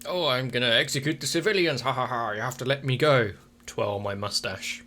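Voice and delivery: cartoonish evil villain gloat; hammy Saturday-cartoon baddie, mock cackle; mustache twirling villain. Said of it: "the Hanna-Barbera cartoonishly evil".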